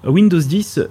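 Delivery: put-on slow, stretched Chinese-accented product name; mock Chinese accent. Host naming China's Windows version, in a deliberately bad mock Chinese accent. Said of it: "Pardonnez mon accent chinois".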